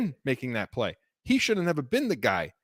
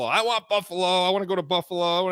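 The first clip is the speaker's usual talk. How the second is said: mock screaming; 3 semitones higher than usual. Host throws co-host's Buffalo boasts back at him, mock screaming. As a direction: imitate his eager clamoring for Buffalo. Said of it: "You've been screaming for Buffalo".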